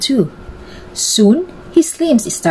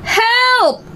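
shout for help. A narrator's reading. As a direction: call out in a panic. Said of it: "he shouted at the top of his voice".

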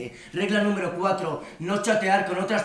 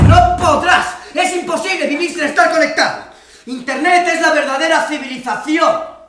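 much higher, furious yelling rant; angry shouting; 6 semitones higher, 12 dB louder than usual. Acted. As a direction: shout it like a zealot. Furious rant about internet life.

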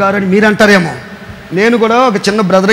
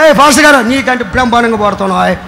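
Satan flattering. Retold or imitated. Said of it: "అన్నాడంట".

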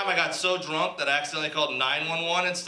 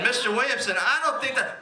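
higher, polite, hesitant agent; hesitant operator voice; 7 semitones higher than usual. Retold or imitated. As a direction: object politely, like a support agent. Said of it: "He said".

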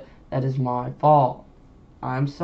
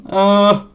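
loud grunt of toe pain; 6 semitones higher, 8 dB louder than usual. Real, not acted. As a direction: groan through the pain. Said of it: "I just stubbed my toe".

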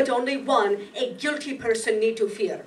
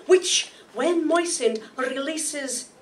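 slow reveal; slower than usual. Acted. Detective reveals the poison.

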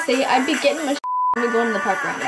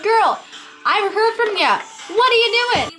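sassy texting voice; 7 semitones higher than usual. Retold or imitated. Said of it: "I'm like".

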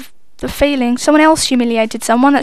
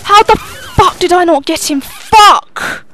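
frustrated; 5 semitones higher, 3 dB louder, slower than usual. Real, not acted. Missed kill, swearing in frustration.

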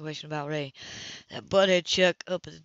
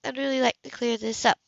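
higher, cool woman's voice, caught off guard; higher, cooler woman's voice to Cam at her door; Anna's voice; 6 semitones higher, 4 dB louder than usual. Acted. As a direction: play the composed woman surprised at her door. Anna speaking.

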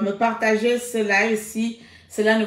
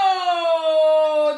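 long, held "oh" that slides down; sustained, falling "oh"; drawn-out exclaimed oh; 3 semitones higher than usual. Real, not acted. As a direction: wail a long "oh" of protest. Scolds friend for being in Istanbul.

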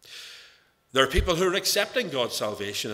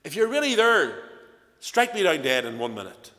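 imitated defiant challenge, firm and raised; 3 semitones higher, 5 dB louder than usual. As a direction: dare God out loud, retold. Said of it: "flaring in the face of God".

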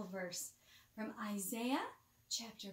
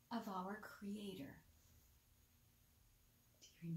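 soft unvoiced whisper, much softer; 3 semitones lower, 12 dB quieter than usual. Real, not acted. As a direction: whisper it like a bedtime secret. Bedtime whisper to child.

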